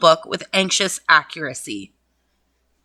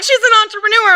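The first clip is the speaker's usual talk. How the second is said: "She's an entrepreneur" pitched up through laughter; high giggly retelling; laughing quote; 12 semitones higher, 4 dB louder, faster than usual. Retold or imitated. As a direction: quote herself while cracking up. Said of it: "I was like".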